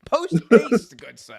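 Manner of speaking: loud, high, hammed-up toff voice; mock posh English. Mock posh Englishman demanding a finisher, loud and high. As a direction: bark it like a pompous English gentleman. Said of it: "mock posh English phrase".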